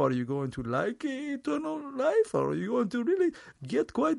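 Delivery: high, hammed-up Jewish vampire with an Israeli accent. Comic vampire inviting people to Transylvania, in a mock Jewish accent. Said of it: "one of the world's first Jewish vampires".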